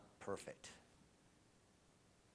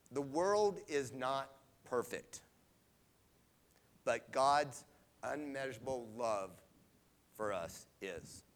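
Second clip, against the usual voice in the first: holding back tears; slower than usual. Real, not acted. Speaker moved by love for her father, slow and tearful. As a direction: fight the tears through it. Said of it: "did not cry".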